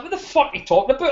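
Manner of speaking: mock outrage. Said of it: "I was like".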